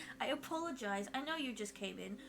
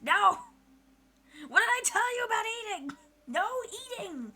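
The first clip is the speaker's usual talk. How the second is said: loud, high telling-off; mock scolding; 7 semitones higher, 8 dB louder than usual. Streamer telling off a hungry viewer, mock scolding. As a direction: scold like they broke the rule again.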